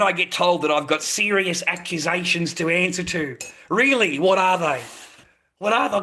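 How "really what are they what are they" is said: mildly riled, retold questioning; getting arky. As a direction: re-enact a testy demand for answers. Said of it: "I'm starting to get arky now".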